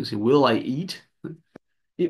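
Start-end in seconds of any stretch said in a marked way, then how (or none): 0.2-1.0 "Will" with the L fully sounded, tongue on the roof of the mouth; clear L sound. Shown as a demonstration. Teacher showing the L sound to students, careful pronunciation. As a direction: sound the L in "Will" with the tongue up, then rise on "eat". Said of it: "Colocando a língua no céu da boca".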